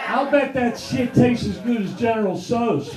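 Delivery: lightly put-on broken English of an Asian girlfriend, laughing through it; mock broken English. Comic imagining his girlfriend's reply, mock broken English. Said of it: "And she goes".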